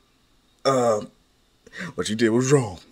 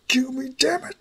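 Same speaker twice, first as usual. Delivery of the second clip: breathless pleading whisper, high; frightened whisper; 13 semitones higher than usual. Acted. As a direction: whisper it in panic, begging for your life. Begging not to be killed.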